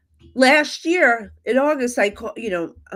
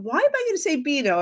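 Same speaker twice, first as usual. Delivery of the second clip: mock protest, higher and fast; higher, quickened retold objection; retold arguing; 5 semitones higher, faster than usual. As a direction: replay an indignant argument with a spirit. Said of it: "I'm arguing with her dead dad".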